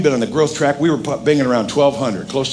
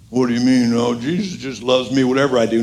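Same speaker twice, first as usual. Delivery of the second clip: lightly voiced objector, lower than usual; low, offhand mock protest; complacent objector; 4 semitones lower than usual. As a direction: mildly mimic a complacent churchgoer.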